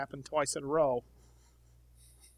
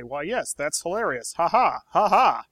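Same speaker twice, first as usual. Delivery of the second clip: forced, hammed-up polite laughter, louder at the end; fake polite laugh; 3 semitones higher, 8 dB louder than usual. Diplomat fakes a laugh at his companion's joke, forced and loud. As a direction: laugh on cue, clearly not amused. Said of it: "in my best, most convincing voice".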